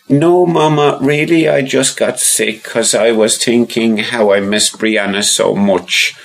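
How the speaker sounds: put-on high little boy voice; child voice. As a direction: voice young Rory, high and eager. Rory protests.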